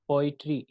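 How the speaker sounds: पोएट्री with पो strong, ई and ट्री weak; stress on first syllable. Shown as a demonstration. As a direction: start पोएट्री with weight on पो. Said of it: "ई और ट्री, ठीक है, ये unstressed". (पोएट्री में पो पर ज़ोर)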